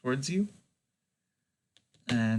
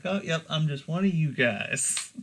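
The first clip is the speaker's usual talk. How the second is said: lightly put-on casual air, slightly higher; feigned nonchalance; 4 semitones higher than usual. Tree creature pretending it walked with the party, mock nonchalant. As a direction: play it innocently offhand, as if blending in. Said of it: "nonchalantly, like, pretending to look at stuff".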